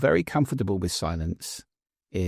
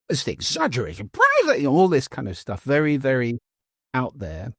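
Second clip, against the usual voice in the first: exaggerated intonation; 4 semitones higher than usual. Shown as a demonstration. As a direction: overplay the tune like a poetry drill. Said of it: "enormously exaggerated pro-, intonation and prosody".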